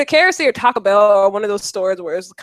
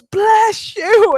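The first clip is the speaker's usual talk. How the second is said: a high, lightly voiced stranger saying bless you; a hint of a startled stranger; mock polite stranger; 11 semitones higher, 4 dB louder than usual. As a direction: imitate a bemused man in line. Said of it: "a man in front of us turned around and goes".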